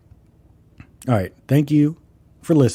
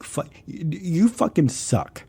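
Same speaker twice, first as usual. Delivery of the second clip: mock yelling. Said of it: "why are you yelling at me".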